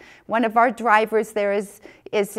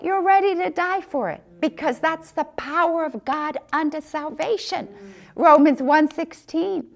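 preaching; 3 semitones higher than usual. Real, not acted. Preaching about the Word.

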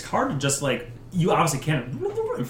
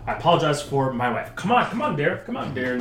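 flustered husband; 4 semitones higher, 5 dB louder than usual. Acted. Husband apologizing for wife.

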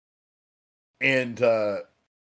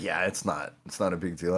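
offhand shrug; 4 semitones lower, 6 dB quieter than usual. Retold or imitated. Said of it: "he's like".

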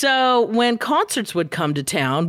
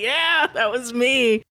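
proud yell; 4 semitones higher, slower than usual. Retold or imitated. Proud admission to record exec.

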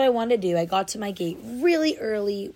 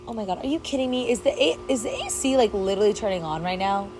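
real annoyed surprise; 2 semitones higher than usual. Real, not acted. AC noise interrupts recording.

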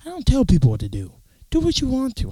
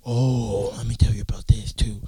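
conspiratorial whisper. Real, not acted. Conspiratorial aside to viewers.

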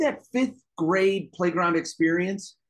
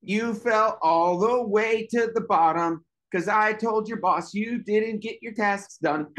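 slow, high sing-song gloating; drawn-out childish tattling; mocking taunt; 4 semitones higher than usual. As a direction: rub it in like a playground bully. Acted taunt after the shove.

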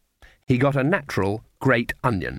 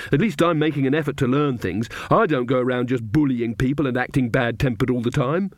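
put-on a touch of a fed-up young witch; mildly snappish, sulky young woman; Magrat. Magrat snapping at Nanny, lightly voiced fed-up.

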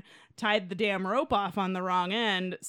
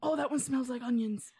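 disgusted Londoner; 5 semitones higher than usual. Retold or imitated.

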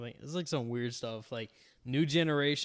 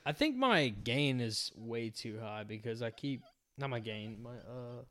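clipping distorted mic. Real, not acted. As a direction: cut off by the noise gate. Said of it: "my noise gate, because it keeps cutting me off".

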